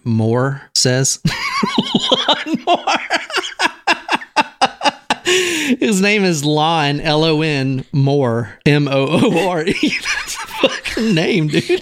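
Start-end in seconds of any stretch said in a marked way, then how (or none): 1.2-5.8 high, helpless laughter on the words; cracking up. Real, not acted. Cracks up at the name. 5.8-11.8 higher voice breaking into laughter; laughing. Real, not acted. Spelling funny name, losing it.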